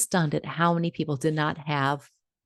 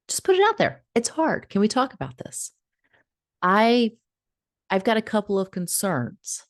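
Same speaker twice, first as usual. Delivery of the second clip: script to boss; 5 semitones higher than usual. Shown as a demonstration. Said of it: "another little script".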